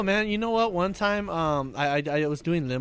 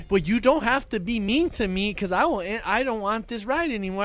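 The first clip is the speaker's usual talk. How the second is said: upset complaint; 5 semitones higher, 4 dB louder than usual. Retold or imitated. Imitated passenger's complaint in quarrel.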